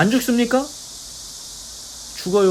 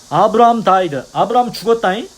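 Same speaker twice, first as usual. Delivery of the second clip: loud, higher mock scolding; retold scolding shout; 3 semitones higher, 5 dB louder than usual. Preacher as Jews scolding Jesus about Abraham, mock shouting. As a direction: imitate an indignant telling-off. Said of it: "소리 지르면서 이제 혼내듯이 얘기하는 거겠죠".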